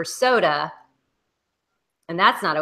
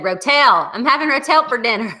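raised, amused imitation of a bad Mississippi accent; mock a fake Mississippi accent; mock Cooper accent; 5 semitones higher, 5 dB louder than usual. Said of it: "I didn't like Cooper's accent".

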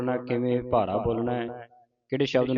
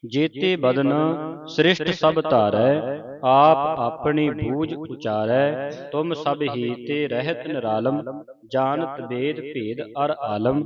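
slow, measured verse recitation; scripture recitation; 4 dB louder, slower than usual. Shown as a demonstration. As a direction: recite the verse slowly, drawing out line endings. (ਹੌਲੀ-ਹੌਲੀ ਪਾਠ ਉਚਾਰਨ)

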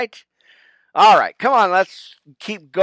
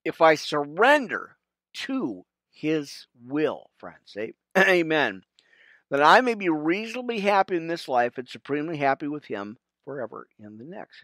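prayer recitation. Real, not acted. Pastor leading viewers through the Serenity Prayer, reverent. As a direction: recite each phrase with reverent pauses.

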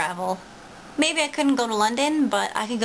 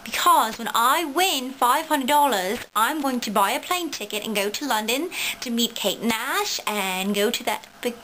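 fake British accent. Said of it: "just an accent that I'm practicing".

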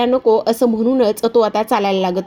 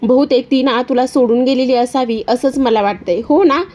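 Disha's sly voice; 4 semitones higher than usual. Acted. Disha calling from her car to Aditya, high and mocking. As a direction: sweet-talk him with a sneer.

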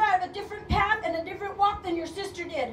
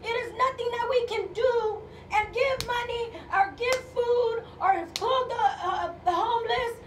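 forceful, raised-voice proclamation; impassioned preaching. Real, not acted. Preacher telling congregation nothing separates them from God, forceful. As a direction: declare it to the whole congregation with conviction.

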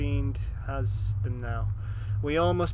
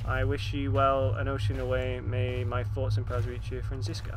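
reading a letter; 2 semitones lower than usual. Acted. Reads letter aloud.

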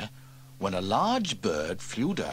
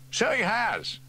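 higher, calmly noting; matter-of-fact fireman; 14 semitones higher, 4 dB louder than usual. Acted. Elvis calmly points out the falling extinguisher, mildly. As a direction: state it mildly. Steele agrees.

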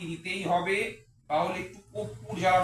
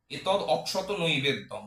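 mantra offering. Shown as a demonstration. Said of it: "গোবিন্দভোগ চালকে সংস্কৃততে বলা হয় অক্ষত".

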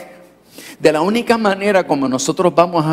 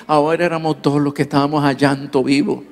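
ordinary delivery

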